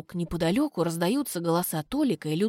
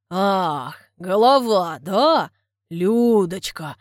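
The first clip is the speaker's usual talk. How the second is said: loud, slow breathy hiss; a suitor pressing closer, hissing and panting; hissing with short breaths; 6 dB louder, much slower than usual. Acted. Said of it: "шипит, дробно выдыхая".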